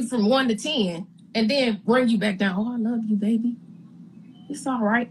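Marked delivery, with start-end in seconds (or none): 2.6-5.1 lightly voiced cooing auntie, a touch sugary; mock sweet auntie. To the guest, a hint of a mock auntie coo. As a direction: imitate the therapist playing a loving auntie. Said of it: "this kinda Auntie Patty, you know, type of approach".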